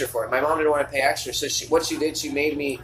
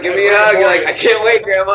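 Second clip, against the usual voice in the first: loud joking quote; 3 semitones higher, 7 dB louder than usual. Retold or imitated. Acting out grandma joke, laughing.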